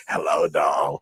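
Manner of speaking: loud, drawn-out mock greeting; hammed-up old lady hello; imitating old woman. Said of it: "the other one says".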